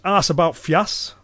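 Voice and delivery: slow Cumbrian quiz phrase; slow Cumbrian dialect. Shown as a demonstration. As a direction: lay out the Cumbrian dialect slowly. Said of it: "if someone in Cumbria was to say".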